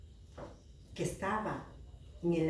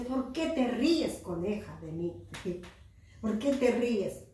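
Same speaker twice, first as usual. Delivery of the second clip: mildly indignant, higher-pitched question; annoyed frog; 3 semitones higher than usual. Acted. Little frog asks the laughing rabbit why, mildly annoyed. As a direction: put a touch of storybook annoyance into it. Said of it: "la ranita molesta le dice".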